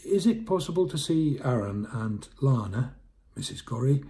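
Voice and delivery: high, loud, eager voice; pleading visitor. Acted. Jonty pleads at the door.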